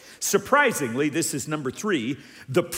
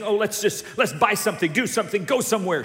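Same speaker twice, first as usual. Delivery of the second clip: breezy urging; 5 semitones higher, 3 dB louder, faster than usual. Acted. Acting out a quick-fix happiness.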